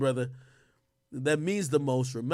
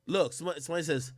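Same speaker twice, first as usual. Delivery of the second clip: ordinary talk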